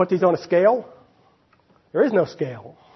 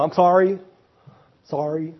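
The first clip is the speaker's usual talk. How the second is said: put-on spanked child apologizing. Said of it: "when you spank them, they go".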